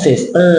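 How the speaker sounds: "sister" with a Thai T, last syllable rising; Thai-accented sister. Shown as a demonstration. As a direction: say "sister" as "sis-ter" with a lifted Thai ending. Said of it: "คนไทยชอบใช้ต่อเต่า". (พูด "sister" แบบสำเนียงไทย เสียงท้ายสูง)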